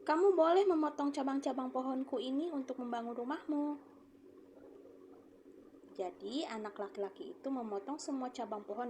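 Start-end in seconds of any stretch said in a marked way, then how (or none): 0.1-3.6 higher, louder kind tree speaking; a tree giving its branches to the boy; quoted speech. Shown as a demonstration. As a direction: generously offer the branches. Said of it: "nadanya seperti akan berbicara lagi".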